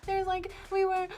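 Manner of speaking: high-pitched fake sobbing into broken words; mock crying. Rachel phones her friends faking a breakdown, mock crying. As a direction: imitate a friend crying too hard to be understood. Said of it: "she's, like, crying".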